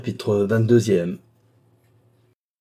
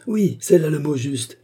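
s'écrie; 6 semitones higher than usual. A narrator's reading. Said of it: "s'écria monsieur de Carquebus".

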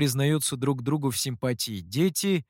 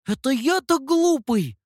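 high, loud startled disbelief; can't believe he's called stupid; surprised question; 10 semitones higher, 4 dB louder than usual. A narrator's reading. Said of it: "удивлённо вопросил Сяо Ту". (удивлённо, высоко и громко)

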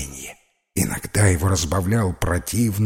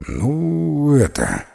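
embarrassed; 5 semitones higher, much slower than usual. Acted. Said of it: "засмущался тот".

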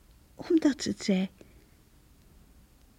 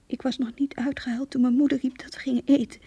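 soft numb whisper, much softer; 7 dB quieter than usual. Acted. Rachel whispering how she wandered off after dinner. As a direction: drift through it in a hush.

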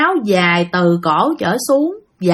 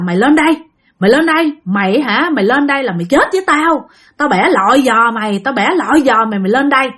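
raised threatening taunt; ghost threatening. Retold or imitated. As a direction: menace him from the shore. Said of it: "Nó kêu rằng á là".

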